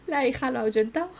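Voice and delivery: cracking up as you say it again; laughing. Real, not acted. Laughing as the daughter scares off the dad. Repeats line laughing at the game.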